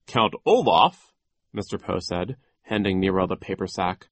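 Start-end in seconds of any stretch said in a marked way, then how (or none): 0.1-1.1 louder questioning echo, rising; puzzled question. A narrator's reading. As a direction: query the name in surprise. Mr. Poe echoes the name.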